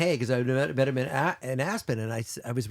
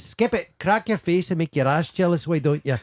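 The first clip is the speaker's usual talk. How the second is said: lightly voiced Rab Nesbitt; 4 semitones higher than usual. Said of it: "my favorite from the show".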